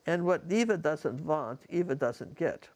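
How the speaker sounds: slow imitated Bulgarian accent with V for W; Eva's Bulgarian accent. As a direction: deliver the punchline slowly in a Bulgarian accent. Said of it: "I loved her accent".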